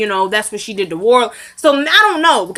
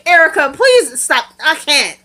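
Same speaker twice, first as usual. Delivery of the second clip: higher, louder, drawn-out laughing protest; cracking up in exasperation; laughing plea; 6 semitones higher, 4 dB louder, slower than usual. Real, not acted. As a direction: beg through real laughter. Laughing at Erica's apology.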